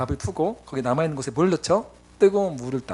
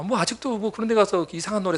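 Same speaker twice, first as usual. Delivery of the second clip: normal talking voice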